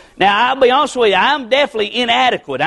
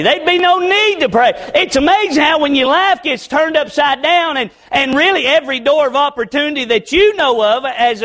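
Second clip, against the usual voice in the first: higher-pitched, driving preacher delivery; worked-up pulpit cadence; heightened preaching; 5 semitones higher than usual. Real, not acted. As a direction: preach it with rising fervor, pitch lifted.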